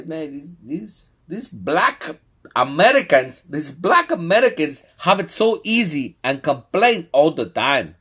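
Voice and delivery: high, loud exasperated quote; mock complaint. Quoting Africans griping about Black Americans, high loud mock complaint.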